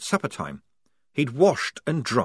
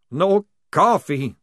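louder, higher, slow moan; 8 semitones higher, 6 dB louder, slower than usual. A narrator's reading. Maledict mourning the coffee, slow moan. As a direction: mourn it slowly. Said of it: "moaned Maledict".

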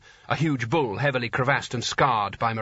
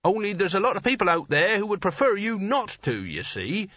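high, anxious reasoning voice; desperate; 6 semitones higher than usual. A narrator's reading. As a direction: reason desperately with rising pitch. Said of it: "said Nigel desperately".

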